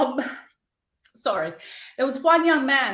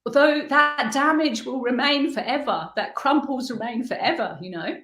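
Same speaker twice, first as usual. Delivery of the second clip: choked up; 2 semitones higher than usual. Real, not acted. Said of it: "I'm getting really emotional here".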